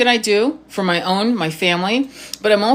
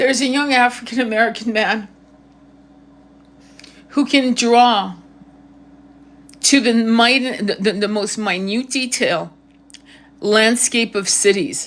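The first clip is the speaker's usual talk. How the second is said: tearful crying voice, words drawn out. Talking about autistic people's talents, the speaker says this while crying. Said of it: "if you hear my voice, I am crying".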